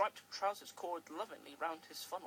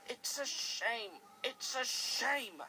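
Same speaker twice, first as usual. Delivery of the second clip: hissed; 6 semitones higher, 5 dB louder, slower than usual. Acted. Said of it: "hissed Henry".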